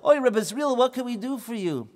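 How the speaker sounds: high, loud, fast build-up; hammed-up storyteller; excited storytelling. A narrator's reading. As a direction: rush in with excitement. Excited narration, greeting.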